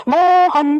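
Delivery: मोहन with the ओ stretched very long, slow; like calling someone from afar, मोहन slowly stretched; drawn-out call. Shown as a demonstration. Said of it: "हम इसको खींच के बोलेंगे".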